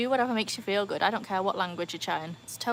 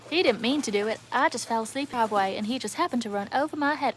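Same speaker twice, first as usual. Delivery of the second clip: faux American accent; 2 semitones higher than usual. Streamer quotes a line to viewers, faux American accent. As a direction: play the line as a fake American. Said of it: "I was doing my faux American accent".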